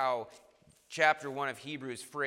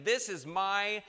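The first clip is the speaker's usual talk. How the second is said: slow, louder, raised proclamation; voice of God the Father; 3 semitones higher, 5 dB louder than usual. Retold or imitated. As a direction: proclaim it slowly as the heavenly Father. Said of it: "the heavenly Father saying".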